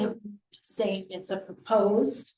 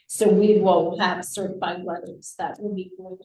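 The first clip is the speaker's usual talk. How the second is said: underwater. Real, not acted. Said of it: "you sound like you're underwater".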